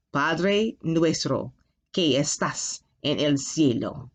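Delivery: slow, careful reading, word by word; slow down so students can follow. Shown as a demonstration. Teacher slowing down for the class, slow and careful. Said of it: "I'll go a little slower".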